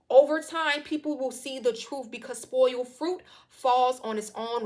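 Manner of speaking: loud and slow, the first words shouted out; preaching climax. Real, not acted. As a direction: preach it like a pastor at the peak of the sermon. Preaching climax, spoken slowly.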